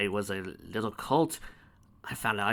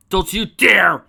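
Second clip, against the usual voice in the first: loud high yell of protest; shouted warning; 9 semitones higher, 16 dB louder, slower than usual. Real, not acted. Player yelling at the storyteller to stop, loud high protest. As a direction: yell it to cut him off.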